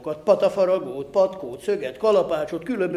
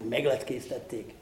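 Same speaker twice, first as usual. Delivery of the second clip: taken aback; 5 semitones lower, 9 dB quieter than usual. A narrator's reading. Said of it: "hökkentem öreg szülémre".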